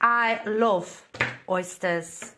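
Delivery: halting Geordie attempt; unsure amateur Geordie accent; a singer. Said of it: "a singer".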